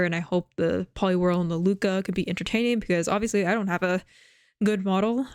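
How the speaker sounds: talking while chewing gum; words round a piece of gum. Real, not acted. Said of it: "sorry, I do have gum in my mouth".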